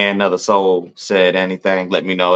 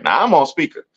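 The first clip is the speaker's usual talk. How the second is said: ordinary talk, nothing marked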